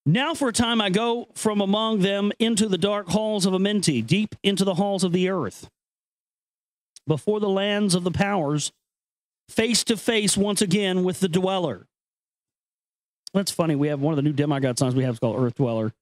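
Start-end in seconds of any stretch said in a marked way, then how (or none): 0.0-11.9 measured, grave reading of an ancient text; solemn recitation. Acted. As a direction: read it like sacred scripture, unhurried. Reads ancient text aloud.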